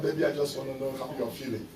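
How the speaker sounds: soft, fast lover's coo; quiet mock-romantic voice; mock sweet lover. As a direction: tease it like a syrupy text. Mocking lovers' chat message.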